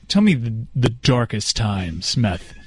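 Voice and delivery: slow, probing interviewer impression; Dan voice. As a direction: lean in like a prying host. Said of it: "in his best Dan voice".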